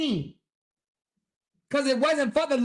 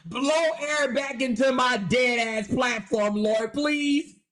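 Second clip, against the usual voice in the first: mock prayer. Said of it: "he was really calling out to the Lord".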